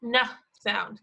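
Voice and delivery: the N sound said on its own, long and humming; isolated N sound. Shown as a demonstration. Teacher models the N sound for kids: long nnn. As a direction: hum the N in "N sound" as a clean nnn. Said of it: "we're listening for the N".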